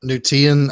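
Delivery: "New Tian" with Tian said TEE-en; suggested pronunciation. Shown as a demonstration. Co-host answers unsure, Tian as TEE-en. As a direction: put an ee sound in "Tian" of "New Tian". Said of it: "is it Tian or Tian?".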